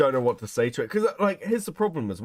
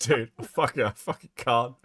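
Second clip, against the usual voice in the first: talking through a bite of pizza; words round a mouthful of food; chewing while talking. Real, not acted. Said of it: "you can hear me eating pizza".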